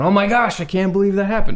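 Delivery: lively, excited, high voice swinging upward. Showing how ups and downs of voice sound: excited rising voice. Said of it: "and if I'm going".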